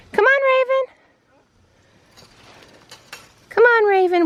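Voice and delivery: high, loud coaxing call; calling the goat. Real, not acted. Farmer coaxing her goat Raven, high loud call. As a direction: coax her through the gate.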